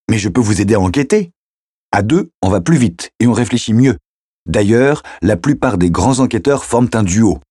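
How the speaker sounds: put-on a kid sure he is right, pressing his case; eager teenage boy. Teen keeps pleading his case. (adolescent enthousiaste, voix plus aiguë)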